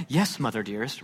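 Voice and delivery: feigned obedience to mother; mock eloquent. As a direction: play the overly polite child, quietly. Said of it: "the most eloquent of".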